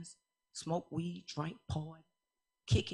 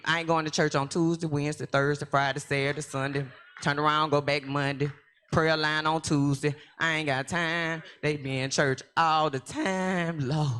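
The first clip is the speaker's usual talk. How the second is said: exasperated protest; 4 dB louder than usual. Retold or imitated. Listing church days in protest.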